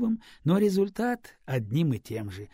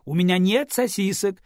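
indignant retort; 7 semitones higher, 6 dB louder than usual. A narrator's reading.

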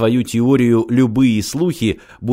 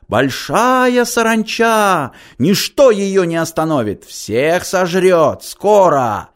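much higher, drawn-out wailing shouts; hysterical prophecy; 8 semitones higher, slower than usual. A narrator's reading. Holy fool crying doom to the crowd, hysterical. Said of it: "отрывистые истеричные выкрики Тюти".

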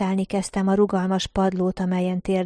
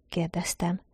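whispered tag; 7 dB quieter than usual. A narrator's reading. Narrator's tag after a question.

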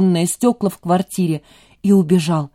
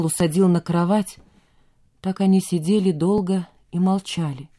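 ordinary delivery

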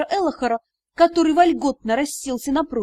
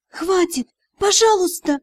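pleading; 5 semitones higher than usual. Acted. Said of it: "попросила я".

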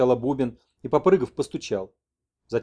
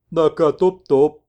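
slow, loud sing-song; shaman messenger; 4 semitones higher, 9 dB louder, much slower than usual. Acted. Messenger tells the old man he came on foot, slow and loud. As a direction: chant it while stamping.

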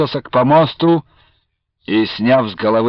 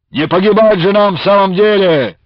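loud, higher barked protest; 7 semitones higher, 5 dB louder than usual. A narrator's reading. One of the brothers barking at Platov, loud. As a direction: bark it defiantly at the ataman. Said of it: "рявкнул".

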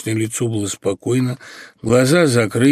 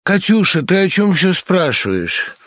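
startled; 6 semitones higher than usual. Acted. Dasha startled by sister.

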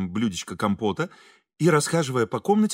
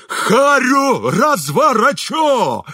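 loud, slow, much higher bellow; raging threat; 11 semitones higher, 6 dB louder, much slower than usual. A narrator's reading. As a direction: threaten to smash his face, beside himself. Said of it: "неистовствовал дворник".

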